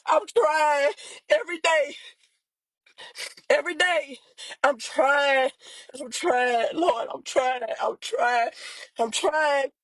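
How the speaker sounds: real tearful pleading, phrase after phrase; crying. Real, not acted. Sister telling the Lord she is trying, crying. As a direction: plead through tears, sinking as it repeats. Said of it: "I'm getting on here crying".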